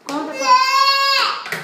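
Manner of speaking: coaxing high squeal. Real, not acted. Mother coaxing child, voice jumps.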